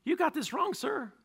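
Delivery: high, loud frantic pleading; pleading priest. Acted. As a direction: beg the king to hear you out. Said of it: "Ahimelech's like".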